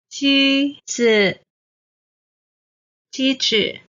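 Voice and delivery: 机子 with high level 机 and a quick light 子; neutral tone. Shown as a demonstration. Teacher drilling learners, high 机 then light neutral 子. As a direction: keep 机 high, then drop a short unstressed 子. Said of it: "子, the neutral tone".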